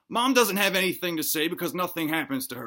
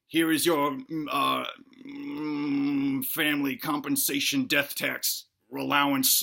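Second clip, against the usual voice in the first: robot; 3 semitones lower, slower than usual. Acted. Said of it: "And then the robot says".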